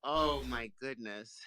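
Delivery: high cracking up; can't stop laughing; game master losing it at the table; real laughter. Real, not acted.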